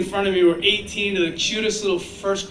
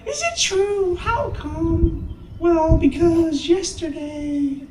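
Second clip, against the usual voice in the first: put-on much higher child voice, slow at the end; little girl voice; 11 semitones higher, much slower than usual. Little girl asks the speaker a muddled question in a much higher voice. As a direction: sound like a muddled first grader asking a question. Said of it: "this little girl went".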